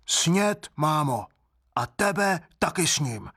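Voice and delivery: a hungry creature about to swallow her; greedy baby voice. Acted. Wooden baby tells his mother he will eat her too, childish and menacing.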